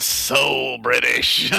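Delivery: drawn-out, exaggerated SO; mock complaint. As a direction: stretch out SO in mock grievance. Joking mimicry of the review complaint.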